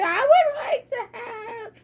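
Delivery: "I would like to have" squeezed out through giggles; Mary frozen mid-order, laughing; laughing halting order. Retold or imitated. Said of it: "she said".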